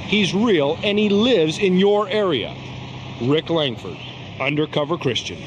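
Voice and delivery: grave TV exposé voice; dramatic announcer. Acted. Dramatic TV host narration.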